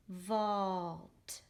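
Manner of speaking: VAULT as one long blended syllable; read straight across. Shown as a demonstration. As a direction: stretch "vault" smoothly through to the t. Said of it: "gonna read it straight across".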